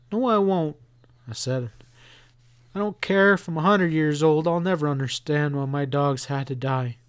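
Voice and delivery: put-on defiant boy. Boy insists to his mother he will never understand, defiant.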